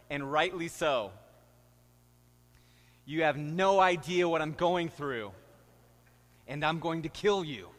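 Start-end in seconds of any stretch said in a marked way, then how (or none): 3.1-7.7 mock pregnant wife. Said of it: "every pregnant woman said".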